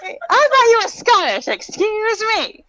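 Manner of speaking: high, laughing apology. Real, not acted. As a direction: giggle through it. Laughing at Scottish mix-up.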